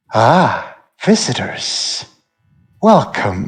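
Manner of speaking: monstrous spider-woman creature voice. A narrator voicing a spider-bodied woman appearing behind the visitors: spider-woman character voice. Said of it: "you hear a voice directly behind you".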